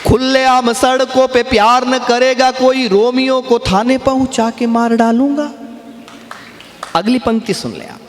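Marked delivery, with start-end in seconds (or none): 0.1-5.5 kavi sammelan recitation. Acted. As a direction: recite each line with relish, stretching the words. Recites satirical poem to audience. (मंच पर कविता पाठ का धीमा, खिंचा हुआ अंदाज़)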